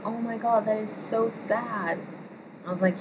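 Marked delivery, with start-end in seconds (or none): 0.1-2.0 high, mock-shocked sympathy, slowing on "so sad"; gasping sympathy. Friend at the campfire reacting to the lost-love story, mock-shocked sympathy. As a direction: play up the friend's dismay. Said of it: "And she was like".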